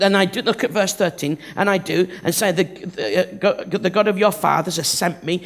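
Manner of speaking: hammed-up nervous Moses; stammering Moses. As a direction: fumble and hedge like a reluctant man. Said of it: "Moses is saying".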